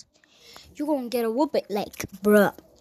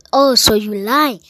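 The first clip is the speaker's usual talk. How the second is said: louder mock accusation; accusing teacher; 5 dB louder than usual. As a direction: catch him in the lie.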